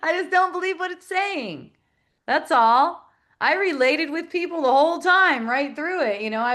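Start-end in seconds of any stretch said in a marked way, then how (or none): 0.0-1.7 laughing retort. Retold or imitated. Answering her son's taunt, laughing. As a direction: laugh while insisting. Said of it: "And I'm like".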